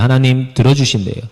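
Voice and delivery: ordinary talk, nothing marked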